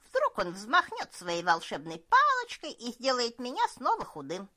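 put-on loud, scoffing old cook; mock him with a big laugh in it. Cook mocks the elf.

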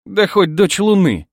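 slow, high, loud mockery; scornful snort. A narrator's reading. Bride mocking the emperor's daughter's rank, loud scornful retort. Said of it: "фыркнула Милена".

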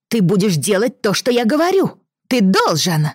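put-on high, demanding little boy; bossy child. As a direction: order him around like a spoiled lord. Boy commands the groom.

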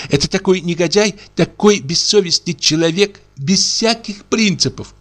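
high, indignant tirade; indignant wife. Acted. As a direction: rant in outrage. Wife indignant about scoundrel.

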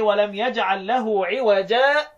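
slow recitation, with a short break after "عوجا" and no breath; slow Quran recitation with a gentle catch; recitation for Hafs. Shown as a demonstration. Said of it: "يبقى أنا هقرأ لحفص أقول إيه؟".

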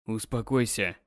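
husband commanding his wife. A narrator's reading. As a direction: order her calm. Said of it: "приказывает он".

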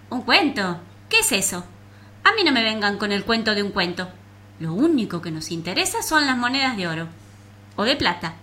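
loud mocking dismissal; scornful cockroach. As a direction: scoff at the very idea. Cockroach scoffs.

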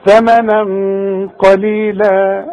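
ثمنا with heavy nasal ghunna, قليلا slow; heavy ghunna demo. Shown as a demonstration. Teacher models heavy ghunna of ثمنا for student. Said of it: "هفخم الغنة دي".

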